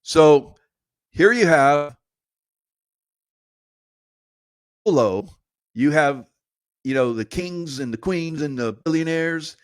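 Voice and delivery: indignant rant. Real, not acted. Indignant rant about polo.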